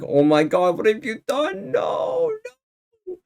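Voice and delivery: climbing into a very high falsetto wail; hammed-up horror as Missus Claus; horrified. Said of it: "Missus Claus is in horror".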